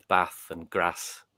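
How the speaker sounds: northern Hartlepool short vowels, slow; Hartlepool accent. Retold or imitated. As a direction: slowly show off a Hartlepool accent. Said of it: "with my Hartlepool accent".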